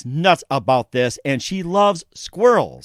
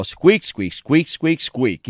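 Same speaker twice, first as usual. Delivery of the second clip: playful imitation of little squeaks; squirrel squeaks; much slower than usual. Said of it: "one of the guys in there saying".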